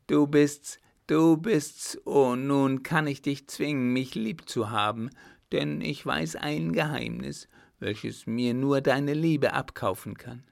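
jubilant pleading. Acted. Girl jubilant, pressing him for love.

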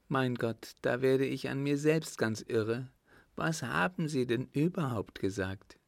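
lightly voiced countess at her wits' end; confused countess demanding an answer.

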